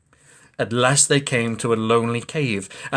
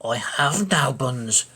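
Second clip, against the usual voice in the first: timid squirrel; slower than usual. Acted. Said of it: "the squirrel replied".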